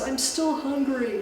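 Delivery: moaning monster. Acted. Chenoo calls from the sweat lodge, moaning. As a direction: moan it slowly from inside the lodge. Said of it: "moans and says".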